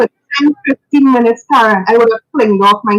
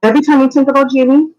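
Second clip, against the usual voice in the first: higher and faster, pressing the point; a rallying restatement to the listeners; urging emphasis; 5 semitones higher, faster than usual. Real, not acted. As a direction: lift it up and drive it home. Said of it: "So what we do is".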